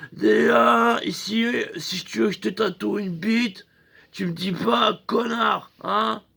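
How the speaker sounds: playfully outraged tattoo artist; mock angry tattooist. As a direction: tell him off like a touchy tattoo guy. Tattooist scolds client, voiced.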